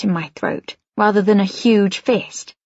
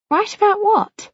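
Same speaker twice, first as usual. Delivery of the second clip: curious question; 12 semitones higher than usual. A narrator's reading. Narrator asks curiously.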